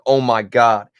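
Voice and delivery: mildly excited starstruck quote; freaking out. Retold or imitated. Player retells teammates spotting a famous streamer, mildly freaking out. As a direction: imitate awed teammates, a touch worked up. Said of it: "my teammates were freaking out".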